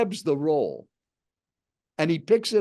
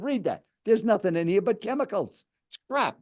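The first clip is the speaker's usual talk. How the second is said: high, insistent retold criticism; pushy quoted verdict; aggressive; 5 semitones higher than usual. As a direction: imitate a stranger condemning food, without shouting. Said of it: "kind of an aggressive tone".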